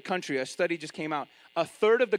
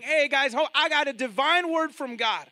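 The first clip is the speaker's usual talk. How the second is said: higher, coaxing false-teacher voice, gently reassuring; mock sweet persuader; 6 semitones higher than usual. Woman urging the church to join the guilds, coaxing higher voice. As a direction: sweet-talk them into compromise like a smooth false prophet. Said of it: "But this woman is saying".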